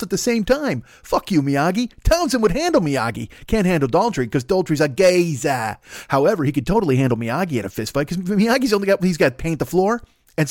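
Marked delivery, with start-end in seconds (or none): 4.8-5.8 mock Cockney. Repeats the mock gangster word.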